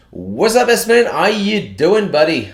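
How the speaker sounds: slow, stretched, cheerful hello to a friend; drawn-out greeting. Real, not acted. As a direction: draw out the greeting warmly. Greeting a viewer in chat.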